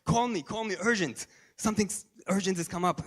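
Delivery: playful fake emergency call; mock urgent. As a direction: pretend something terrible has happened. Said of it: "Yes, I said".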